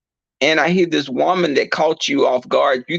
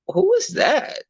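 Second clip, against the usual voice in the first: sharp question. Retold or imitated. Confronting the ex on the phone.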